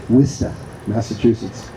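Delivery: Worcester said the Boston way, WISS-tuh, with no r; Worcester in a local Boston accent, dropping the r. Shown as a demonstration. Speaker from Boston showing the locals' Worcester in a Boston accent. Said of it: "as we say in Massachusetts".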